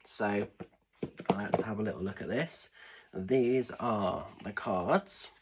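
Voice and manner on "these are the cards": whisper. Real, not acted. Shuffling tarot cards, ASMR-like.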